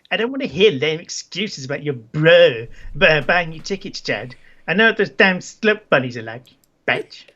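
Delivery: put-on accent, girlfriend telling off; Isabella. Isabella rejects her boyfriend's lame excuses, put-on accent. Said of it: "this is the best accent ever".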